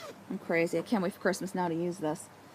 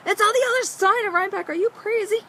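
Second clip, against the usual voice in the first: higher, louder, disbelieving; incredulous husband; 14 semitones higher, 6 dB louder than usual. Retold or imitated. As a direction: ask it like he can't believe her.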